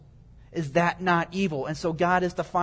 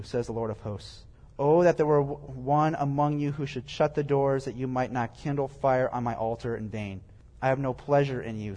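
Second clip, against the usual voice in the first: lower, measured reading voice; scripture reading; 4 semitones lower than usual. Acted. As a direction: read the verses out evenly, dropping low at each attribution. Reads scripture aloud.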